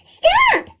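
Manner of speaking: high sharp yell of Stop!; scream. A narrator's reading. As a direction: shriek it to halt him. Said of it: "screamed his guests".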